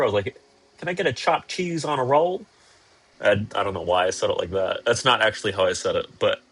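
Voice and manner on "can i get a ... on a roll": higher-pitched order in a put-on New Yorker accent; attempted New Yorker accent. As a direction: try to pass as a New Yorker when ordering. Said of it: "I tried to sound like a New Yorker".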